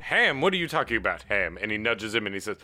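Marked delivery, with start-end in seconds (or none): 0.0-1.6 higher, louder incredulous questioning; baffled elf guard. Acted. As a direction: throw the question back in disbelief.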